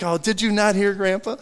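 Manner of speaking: put-on high, loud kid's retort; imitated grandson. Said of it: "He's like".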